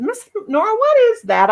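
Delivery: put-on high curious child voice; imitating a small girl's question; little girl asking. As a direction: ask like a nosy little girl.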